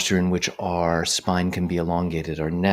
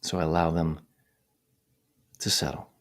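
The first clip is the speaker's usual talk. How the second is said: unhurried phrases set apart by long silences; guided meditation. Real, not acted. Meditation teacher guiding attention to the breath, calm measured voice. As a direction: talk listeners through it calmly, leaving space.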